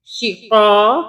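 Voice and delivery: शिक़ा with short शि and long क़ा; lengthened क़ा at the end of शिक़ा; slightly stretched vowel. Shown as a demonstration. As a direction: hold the last vowel of शिक़ा. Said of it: "थोड़ा सा खींचेंगे".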